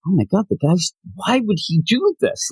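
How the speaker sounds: high, baffled viewer reaction; mock disbelief. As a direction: imitate someone aghast and puzzled, pitch up.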